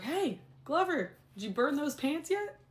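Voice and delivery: high-pitched, drawn-out jokey call; joking tease. Retold or imitated. Admin teasing the teacher next morning, joking. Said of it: "Making jokes".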